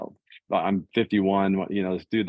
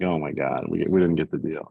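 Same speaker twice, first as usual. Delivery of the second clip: lower, crestfallen murmur; retelling losing the deal, lower and deflated; 4 semitones lower than usual. Retold or imitated. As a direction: let the bad news sink the voice. Hears he lost the deal.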